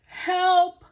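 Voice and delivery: high, loud cry; crying for help. Acted. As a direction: call out in alarm. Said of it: "cried Paddington".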